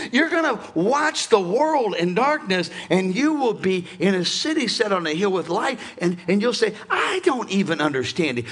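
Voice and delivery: loud, driving preaching cadence. Real, not acted. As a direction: preach it forcefully, punching key words.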